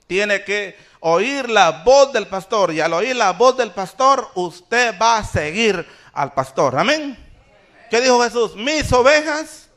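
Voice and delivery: loud, insistent pulpit delivery; emphatic preaching. Real, not acted. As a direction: drive the point home to the congregation. Preacher drives the point home.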